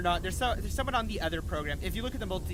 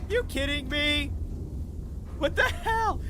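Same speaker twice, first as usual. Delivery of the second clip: exasperated; 7 semitones higher, slower than usual. Real, not acted. Another failed attempt.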